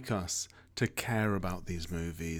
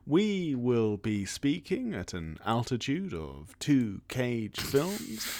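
pilot voice; 3 semitones lower than usual. Acted. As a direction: talk like an airline captain on the intercom. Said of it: "I'm doing pilot voice".

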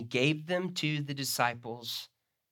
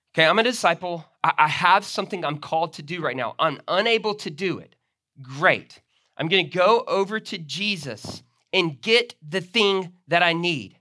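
playing a disciple; 3 semitones higher, 6 dB louder than usual. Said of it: "the picture, literally is something like this".

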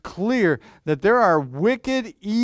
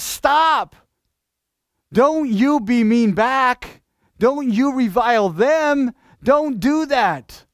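stern command; 7 semitones higher, 5 dB louder, slower than usual. Acted. Verse voiced as a stern command.

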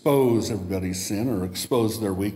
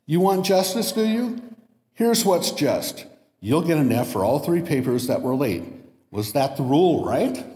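higher, mocking professor's retort; ironic professor; 4 semitones higher than usual. Professor answering protesting students, ironic. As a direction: needle them with justice. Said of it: "Sproul replied".

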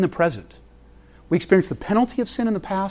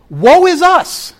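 high, slow, hammed-up wail of woe; a slow, high, theatrical groan, laughing into the question; mock lament; 11 semitones higher, 7 dB louder, slower than usual. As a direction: moan it like a tragic hero, tongue in cheek. Mock lament about spending.

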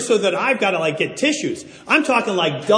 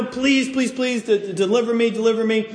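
higher-pitched mock pleading; begging prayer; 4 semitones higher than usual. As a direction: plead with God, tripping over the words. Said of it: "I was begging God".

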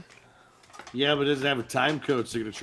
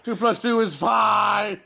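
tortured shout; 5 semitones higher, 4 dB louder, slower than usual. Retold or imitated. Acting 1984 torture scene.

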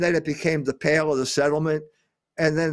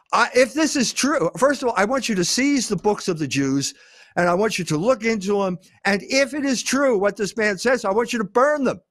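voicing the Pope as mildly indignant, pitched higher; a retold papal order, raised and outraged; lightly acted outrage, higher than his usual voice; appalled Pope; 5 semitones higher than usual. Retelling the appalled Pope's orders.

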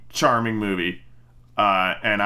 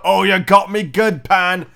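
higher, louder hammed-up chuckle-along; mock good sport; 6 semitones higher, 4 dB louder than usual. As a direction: play a villain laughing off a prank. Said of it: "Hook didn't sit there and go".

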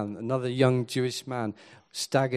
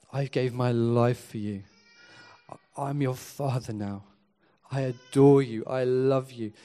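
gentle God. Retold or imitated. God speaking to his disappointed children, gentle and reassuring. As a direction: comfort the hurting child tenderly. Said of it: "gently comes to us today and says".

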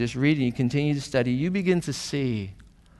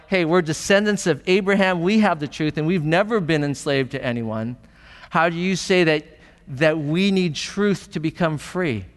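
defensive retort; 2 semitones higher than usual. Retold or imitated. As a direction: push back as if wrongly accused. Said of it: "It's more like".

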